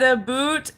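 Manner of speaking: stereotyped Canadian about, said as "a boot"; mock Canadian pronunciation. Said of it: "and they said".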